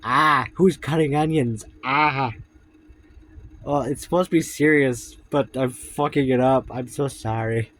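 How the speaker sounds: high, loud tearful break; laughing at herself through real tears; real crying. Real, not acted. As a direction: voice breaking while she cries. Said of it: "I'm crying".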